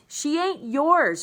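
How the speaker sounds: slow, high, loud scream. Acted. Boy fighting to keep his sister's body, a slow high scream. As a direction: fling each word at him. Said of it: "Bryce screamed".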